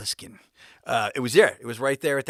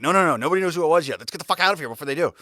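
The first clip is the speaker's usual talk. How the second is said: urgent hushing; 6 semitones higher, 8 dB louder, faster than usual. Retold or imitated. Hurrying buddy away from scene.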